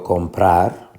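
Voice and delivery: comprar with the weight on its final -prar; stress on last syllable. Shown as a demonstration. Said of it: "Lleva la fuerza de pronunciación en la última sílaba". (comprar con fuerza en la última sílaba)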